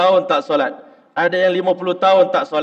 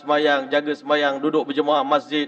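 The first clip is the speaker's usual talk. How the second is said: ordinary delivery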